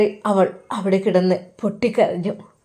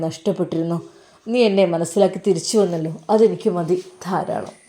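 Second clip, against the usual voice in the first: lower, calm husband reassuring his wife; husband consoling wife, a touch lower; lightly voiced husband; 4 semitones lower than usual. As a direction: tell her gently it's all forgiven.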